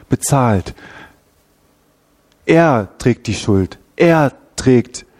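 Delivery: God's voice turning from anger to tender rescue; Gott, der rettet. Retold or imitated. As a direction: speak as a father reaching out despite the pain. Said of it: "setzt sich nochmal neu einem Schmerz aus und sagt". (als liebender Vater, der euch herausholen will)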